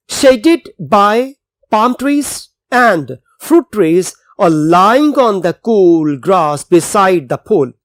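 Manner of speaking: slow, deliberate passage reading for students; slow reading aloud. Acted. Teacher reading the English passage to the class, slow and clear. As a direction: read the text slowly so the class can follow.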